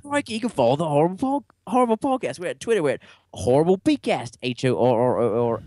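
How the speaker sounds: high, hammed-up Australian accent; Aussie accent. Host plugging Twitter on a dare, exaggerated Aussie accent. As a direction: push the pitch up into mock Aussie. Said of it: "do this in an Aussie accent".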